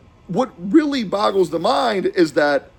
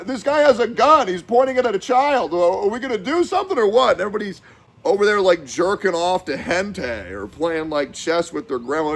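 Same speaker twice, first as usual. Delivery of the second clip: usual speaking voice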